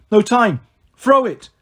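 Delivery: loud, urgent call; yelled. A narrator's reading. Percy yelling at Tyson to throw the fleece. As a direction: shout across the flock. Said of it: "but I yelled".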